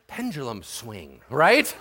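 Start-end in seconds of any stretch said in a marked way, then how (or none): none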